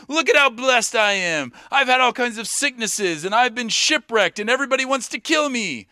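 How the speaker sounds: high-pitched mock bragging; ironic boasting. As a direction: brag about disasters as if they were blessings. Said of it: "he actually boasts in his weakness and his sufferings".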